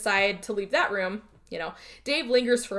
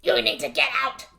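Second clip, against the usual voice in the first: rising to a desperate shout; frantic warning; 6 semitones higher, 4 dB louder than usual. Retold or imitated. Creature clutching Alan, warning him, a rising shout. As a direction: yell it louder each time, begging him to flee.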